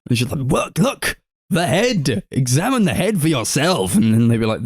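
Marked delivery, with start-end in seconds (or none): 0.5-4.0 high-pitched mock urgency; frantic insistence. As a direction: plead theatrically to be believed. Acting out Nora insisting to others.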